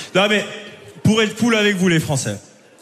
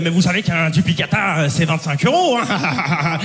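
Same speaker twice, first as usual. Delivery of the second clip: mocking contempt; 3 semitones lower than usual. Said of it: "Et hyper méprisante".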